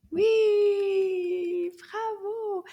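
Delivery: high, bright puppet voice praising; a puppet squeals its approval; squeaky puppet cheer. Pretend. Puppet Anana cheering the children.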